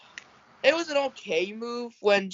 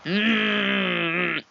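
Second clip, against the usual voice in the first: long drawn-out moan. Real, not acted. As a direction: hum out a sustained moan. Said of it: "you sound like you're moaning".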